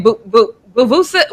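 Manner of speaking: stuttered, garbled "Boo, boo, Vuvusa"; Kendrick Perkins. Retold or imitated. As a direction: lightly mimic someone stumbling into "Vuvusa". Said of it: "Kendrick Perkins up there one more time saying".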